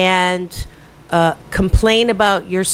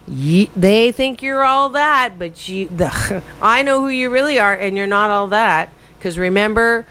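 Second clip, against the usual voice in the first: sneering inner critic. Retold or imitated. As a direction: taunt her like her own inner critic. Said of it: "that critic would say".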